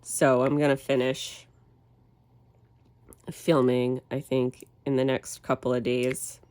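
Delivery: nasal voice from a cold; stuffy cold voice; blocked nose. Real, not acted. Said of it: "even with my nasally voice".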